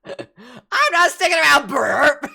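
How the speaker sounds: high, loud squeaky parody; mocking imitation. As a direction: parrot the line in a silly squeak. GM imitating player's line.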